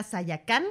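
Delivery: Sayacán with the accent on its last A; stress on final A. Shown as a demonstration. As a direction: lean on the final syllable of Sayacán. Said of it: "con acento en la última A".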